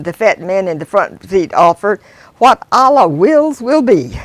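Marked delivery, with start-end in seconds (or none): 2.4-4.2 solemn pronouncement. Acted. Muslim man's pronouncement.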